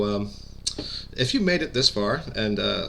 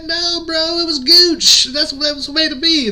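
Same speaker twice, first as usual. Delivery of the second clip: impression of a Southern redneck twang, much higher and louder; Chris's redneck twang; 8 dB louder than usual. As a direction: hype him up in a high, loud redneck twang. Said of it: "he's got a kind of a redneck twang to his voice".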